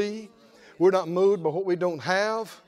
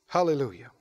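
ordinary delivery

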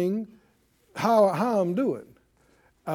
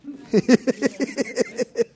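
a bright warm chuckle; laughing; 6 semitones higher than usual. Real, not acted. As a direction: pastor amused at his own checklist, chuckling. Laughs at his own joke.

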